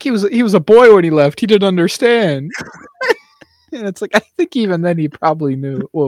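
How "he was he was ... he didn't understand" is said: Mantis impression. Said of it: "Mantis is like".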